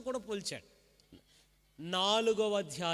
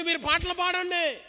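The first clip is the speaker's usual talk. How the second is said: higher, bright call to sing; God's command; 9 semitones higher, 6 dB louder than usual. Acted. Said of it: "వాళ్ళని ఏమంటున్నాడు". (దేవుని ఆజ్ఞను ఎత్తైన స్వరంతో)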